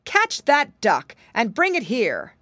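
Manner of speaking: loud, slow command; calling out. A narrator's reading. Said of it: "he called out to his servants".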